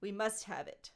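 stagey creature demand, growing in force; Gollum, craving. Acted. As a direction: build to a loud, greedy insistence. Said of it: "a theatrical voice".

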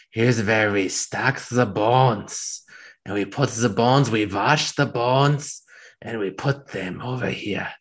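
put-on slow, eager German accent; a lightly done German accent, relishing the bones; excited German guide. Guide showing the bones in the crypt, eager German accent. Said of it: "very excited, like, way too excited".

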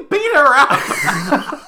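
slow, laughing repeat of the joke; stretched out through laughter. Real, not acted. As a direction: giggle while repeating it.

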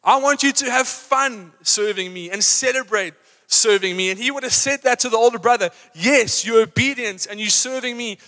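a light, lifted voice of God; God speaking. Acted. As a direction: gently urge them to have fun. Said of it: "God's saying".

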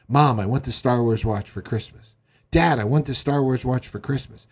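put-on insistent kid pestering his parents; mock begging. Young kid begging parents for a watch, mock pleading. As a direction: lightly imitate a begging child. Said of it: "he was begging his parents".

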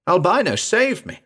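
high-pitched plea for rescue; panicked yell. A narrator's reading. Cornered man calling the girl, panicked yell. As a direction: call out desperately, pitched right up. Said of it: "I yelled".

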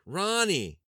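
wife crying out for her dying husband; weeping call. A narrator's reading. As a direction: cry out his name in despair. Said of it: "She wept as she called out his name".

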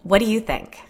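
a mild, curt snap; snapped. Acted. Jen asked if the scratches hurt, mildly snapping. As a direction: answer with a touch of sharpness. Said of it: "Jen snapped".

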